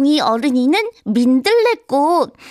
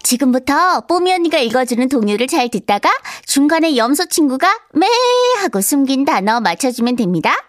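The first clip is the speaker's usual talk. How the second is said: put-on lightly bright children's host welcome; a hint of cheery kids' show host; Pomi unni voice. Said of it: "뽀미 언니와 함께". (살짝 밝은 어린이 프로 진행자 말투)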